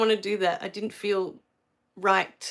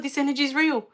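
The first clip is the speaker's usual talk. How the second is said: first take, a bit higher, marvelling; retold amazement; 4 semitones higher, faster than usual. Retelling the moment she first felt Reiki energy, mild awe. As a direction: say this energy is real with dawning wonder. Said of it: "I just sat there crying".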